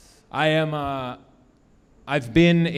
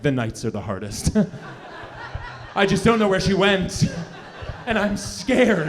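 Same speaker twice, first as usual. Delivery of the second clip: hammed-up forlorn orphan, voice rising high; a mock-tragic orphan's lament; Victorian orphan; 4 semitones higher than usual. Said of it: "I'm like a Victorian orphan".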